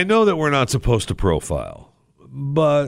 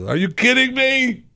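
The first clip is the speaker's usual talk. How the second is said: high, loud outraged disbelief. Retold or imitated. To TSA agent in line, a high loud outraged blurt. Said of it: "All I got to was".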